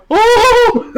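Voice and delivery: high, loud ghostly wail; a shrill elf-ghost cry; ghostly female voice. Retold or imitated. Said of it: "mine was gonna be like".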